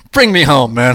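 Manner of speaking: bursting with laughter at the line; laughing delight. Real, not acted. To the guest, hooting with delight and laughter.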